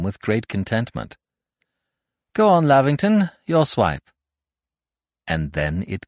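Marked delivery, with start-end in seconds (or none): 2.3-4.1 calling out. Acted. Calling out on golf course.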